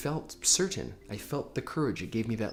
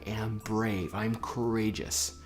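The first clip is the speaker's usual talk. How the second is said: sample mantra; slower than usual. Shown as a demonstration.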